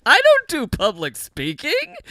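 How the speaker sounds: high, loud, hammed-up panic; mock panicked kid. Retelling her seventh-grade self's stage fright, mock panicked outburst. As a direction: blurt it like a scared seventh grader. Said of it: "seventh grade being like".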